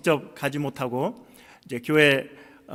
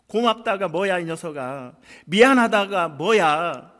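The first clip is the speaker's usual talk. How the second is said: exasperated scolding; 4 semitones higher, 6 dB louder than usual. Retold or imitated. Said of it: "화를 내며".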